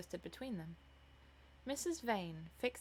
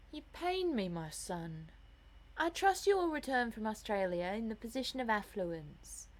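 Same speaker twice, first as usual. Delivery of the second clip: lightly voiced lofty, reproachful mother; theatrical mother, pained; 2 semitones higher, 3 dB louder than usual. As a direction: lecture your son with stagey dignity.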